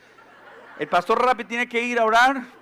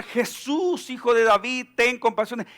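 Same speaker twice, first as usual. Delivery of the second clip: retold shout for mercy; 3 semitones higher than usual. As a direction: call out to Jesus, half-acted. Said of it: "para gritar". (grito fingido, más agudo)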